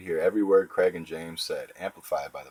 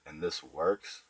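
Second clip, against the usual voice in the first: doubting; 4 dB quieter, slower than usual. Acted. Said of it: "still had that doubting tone".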